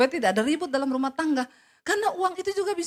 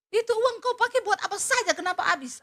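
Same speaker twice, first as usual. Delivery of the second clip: high, loud scolding as the husband; mock angry husband; 7 semitones higher, 4 dB louder than usual. Wife mimics her husband scolding her about spent money, mock angry. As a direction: snap at the wife over missing money.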